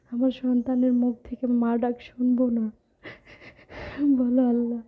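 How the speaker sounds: tearful voice breaking into a sob; crying. Real, not acted. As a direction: speak through real tears. Tearful plea for a child.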